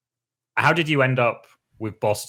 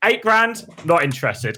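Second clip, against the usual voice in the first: incredulous; 10 semitones higher than usual. Retold or imitated. Teammate mocking Cruz for leaving eight grand, high incredulous. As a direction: pitch it way up in shocked mockery. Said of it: "I was like".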